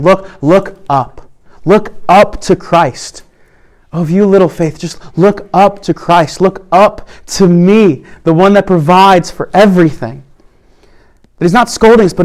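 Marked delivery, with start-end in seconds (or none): 0.0-10.2 slow, tender reassurance; gentle encouragement. Retold or imitated. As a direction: arm round the shoulder, coax them to look up. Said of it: "an arm around their shoulder".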